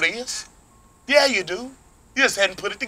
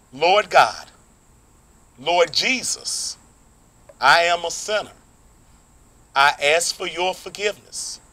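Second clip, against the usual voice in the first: led prayer. Acted. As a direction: lead the prayer line by line. Leads the sinner's prayer.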